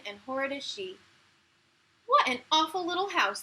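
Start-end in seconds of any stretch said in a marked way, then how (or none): 2.0-3.4 high, loud sneer at the little house; sneering stepsisters. Acted. Stepsisters mocking the new house, loud sneer. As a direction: look down your nose at it, loud and high. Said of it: "they said".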